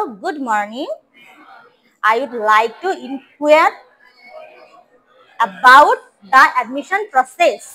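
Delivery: very slow, clear drill; slow model reading. Shown as a demonstration. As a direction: spell it out word by word for the class. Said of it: "আবার first থেকে বলো". (ধীরে ধীরে স্পষ্ট করে বলা)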